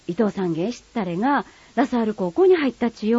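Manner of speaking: casual Kagoshima dialect news, ラサール高校 said matter-of-fact. Acted. Friend telling news to friend in Kagoshima dialect, plainly. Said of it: "短い会話を聞いてください".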